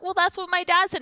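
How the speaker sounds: high-pitched retold kid talking back; mock protest. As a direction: imitate a child defending herself. Child protesting to scolding teacher.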